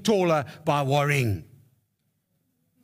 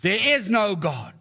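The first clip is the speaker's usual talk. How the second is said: mock yell, pitch raised; retold yell; 4 semitones higher than usual. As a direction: imitate a neighbour yelling across porches. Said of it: "yell to her".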